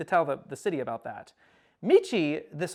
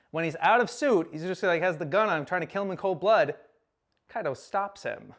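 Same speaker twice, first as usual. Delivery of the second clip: plain reading voice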